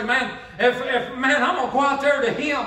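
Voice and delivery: excited, rising joyful believer; joyful believer getting carried away; eager believer. Retold or imitated. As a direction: build the eagerness to a happy shout. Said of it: "one of them views that'll sit there and say".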